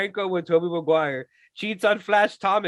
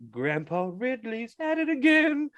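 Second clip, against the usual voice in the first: mock jingle; 4 semitones higher, slower than usual. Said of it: "theme song for, like, Ridley Scott".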